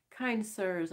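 a mild, pleading plea; plaintive. Acted. Escaped prisoner pleading with the crewmen, plaintive. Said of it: "I began plaintively".

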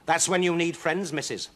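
high, pointed rat voice; taunting rat. Acted.

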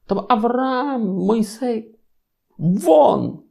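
God waving Abraham and Moses off; dismissive God. Acted. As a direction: brush the patriarchs away impatiently.

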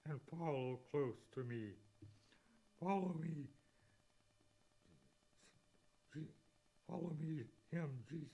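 measured poem reading; preacher reading a hymn aloud; hymn recital. Acted.

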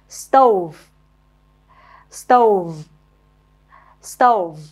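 stove said slowly and clearly, falling; model pronunciation. Shown as a demonstration. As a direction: repeat stove for pupils to copy. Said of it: "nghe cô đọc rồi mình nhớ luôn cách phát âm".

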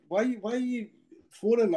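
calling out from the back seat; retold shout. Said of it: "I'm shouting in the back".

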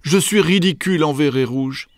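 pleading. A narrator's reading. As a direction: plead high as an embarrassed hippo mum. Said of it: "supplia Maman Hippo". (maman suppliante, voix aiguë)

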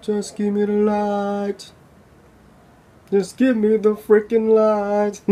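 hammed-up sermon plea; mock preacher. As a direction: stretch it like a revival preacher begging. Mocking preacher, drawn out.

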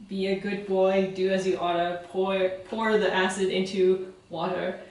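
lightly done British accent on a chemistry rhyme; sing-song British accent for a classroom rhyme. Shown as a demonstration. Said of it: "you have to say it with a British accent".

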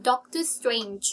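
Doctor Strange slowly, "nj" audible at the end; released final J. Shown as a demonstration. Teacher models with the ending sound, slow and clear. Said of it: "มีเสียง จ".

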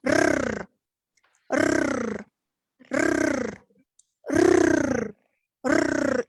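«Р» as a long rolled trill, one at a time; rolled r drill. Shown as a demonstration. Teacher drilling the group on rolled r sounds. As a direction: roll each «р» firmly and separately. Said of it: "І звуком, ... нам потрібні приголосні".

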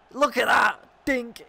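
high, loud burst of delight; excited. Real, not acted. Gamer watching his player score, high excited cry. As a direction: erupt as the ball goes in. Celebrating a goal in FIFA.

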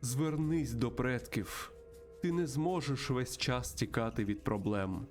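slow, measured mystical mentor; solemn spirit guide. Acted. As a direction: intone slowly, with long pauses between phrases. Voices spirit guide in game. (повільний урочистий голос наставника)

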